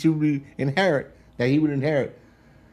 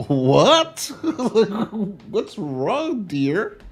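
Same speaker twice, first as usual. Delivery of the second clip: laughing oblivious husband; 9 semitones higher, much slower than usual. Retold or imitated.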